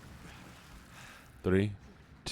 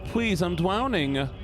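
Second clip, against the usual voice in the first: a bit higher, begging voice; pleading drowning victim; 3 semitones higher than usual. Acted. Drowning victim begging Mister Obama, lightly higher. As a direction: beg desperately for rescue.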